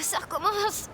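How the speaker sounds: tearful sob breaking the words; crying out as the pain returns; sobbing. Acted. A girl sobbing as the pain comes back, tearful.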